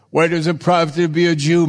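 quick emphatic reread. Shown as a demonstration. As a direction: rattle the verse off with a lift on "profit".

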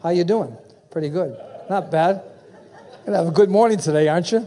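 lightly acted chat with himself; mock self-greeting, a touch livelier; talking to himself. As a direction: play both sides of a cheery self-conversation. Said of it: "I just talked to myself".

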